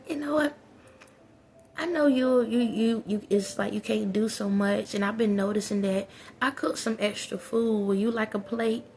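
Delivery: put-on sweeten it up for the elderly neighbor; kinder rephrase. Shown as a demonstration. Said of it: "You ain't gotta say it like that".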